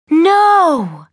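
a high, loud No!; shocked gasp. A narrator's reading. Older brother reacting to a pop star's letter, loud shock. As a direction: gasp it out in disbelief. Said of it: "Ty gasped".

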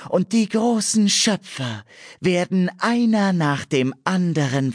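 high, slow, ringing proclamation; rising prophetic voice. A narrator's reading. Nymph Ewan's prophecy echoing over the cliffs, high and slow. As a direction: let it carry over the sea like a seer's call. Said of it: "Seine Stimme wurde lauter und hallte".

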